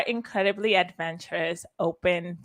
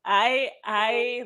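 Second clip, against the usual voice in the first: a real catch of tears in the voice; holding back a sob; crying; 3 semitones higher, much slower than usual. Real, not acted. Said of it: "You're making me cry".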